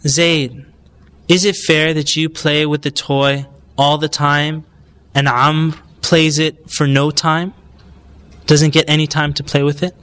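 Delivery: calm, measured question with pauses; calm, polite. Shown as a demonstration. Parent reasons with child hogging the toy, calm and polite. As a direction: ask it gently and politely, unhurried. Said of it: "Just say it calmly, politely".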